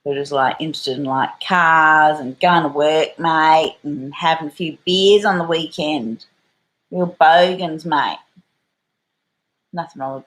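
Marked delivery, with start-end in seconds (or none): 1.4-8.2 put-on loud, broad Australian bogan accent; strong Australian accent. Describing suburban rednecks to viewers, strong Australian bogan accent. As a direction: lay on a thick Aussie bogan accent. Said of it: "really strong Australian accents".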